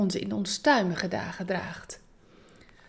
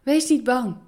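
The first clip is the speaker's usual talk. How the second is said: calm them down gently but firmly; 4 semitones higher, 4 dB louder than usual. Acted. Jesus calming his frightened disciples, gentle reassurance. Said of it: "zei Jezus tegen hen".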